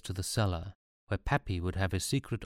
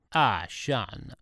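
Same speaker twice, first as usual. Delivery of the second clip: upbeat; 4 semitones higher than usual. A narrator's reading. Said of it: "as upbeat as ever".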